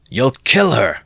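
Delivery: warning shout. Acted. Third man warning Mikulka, loud shout. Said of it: "shouted the third".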